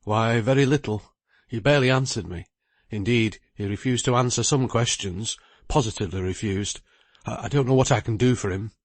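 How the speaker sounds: lightly voiced lawyer, a little worried; lawyer Bridgenorth.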